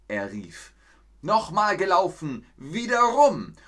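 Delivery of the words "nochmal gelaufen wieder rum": much higher, louder shout; angry demand. Acted. The hare shouts for a rematch, high angry yell. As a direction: yell it, rattled and furious.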